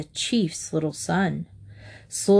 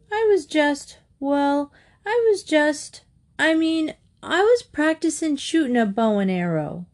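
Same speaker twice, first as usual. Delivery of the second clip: put-on flustered boy; 7 semitones higher than usual. A narrator's reading. Boy flustered making excuses.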